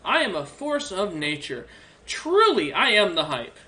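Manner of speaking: grand, self-adoring proclamation; boastful dragon. Acted. Dragon boasting to the adventurers, grand and self-adoring. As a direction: boast like an ancient dragon that eats worlds.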